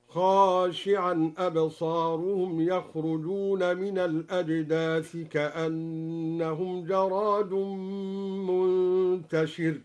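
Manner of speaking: خاشعا with an open kha and a long alif, slow; khashi'an reading demo. Shown as a demonstration. Teacher demonstrating the singular reading, slow recitation. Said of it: "بفتح الخاء بعدها ألف".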